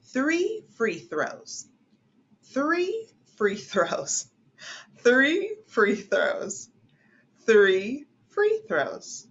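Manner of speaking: Three free throws, each word slow and separate; slow tongue twister. Shown as a demonstration. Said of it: "Let's do the second one".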